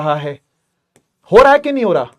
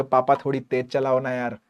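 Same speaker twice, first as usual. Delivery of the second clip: put-on kid begging dad. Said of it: "बोलोगे".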